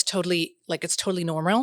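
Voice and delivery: light Americanized accent with a lick of Arabic. Shown as a demonstration. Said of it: "Americanized accent that has".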